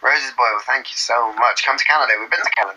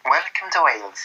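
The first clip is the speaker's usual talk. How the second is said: lilting, badly faked Welsh; attempted Welsh accent. Welcoming visitors to Wales, unconvincing Welsh accent. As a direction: try Welsh and not quite get it. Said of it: "the Welsh accent".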